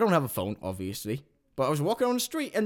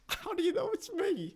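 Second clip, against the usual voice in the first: much higher, teary disbelieving question; choked-up squeaky voice; 13 semitones higher, 8 dB quieter than usual. Acted. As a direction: squeak it out as if near tears. Larry asks caller, overcome.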